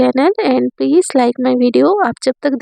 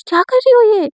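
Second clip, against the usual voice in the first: higher-pitched, lightly annoyed protest; mild angry hiss; 8 semitones higher than usual. Acted. Sandhya objects to Jia, mildly angry and pitched higher. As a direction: scold her friend under her breath, mildly irritated. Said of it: "गुस्से से देखती बोलती".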